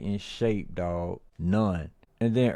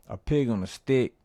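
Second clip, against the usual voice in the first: hammed-up disbelief; 4 semitones higher than usual. Shown as a demonstration. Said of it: "Put some of that acting shit in there".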